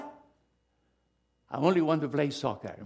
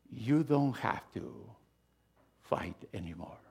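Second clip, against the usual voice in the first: tender whisper; 3 semitones lower, 4 dB quieter than usual. Real, not acted. Pastor comforting a weary congregation, fading to a whisper. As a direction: ease them gently into peace.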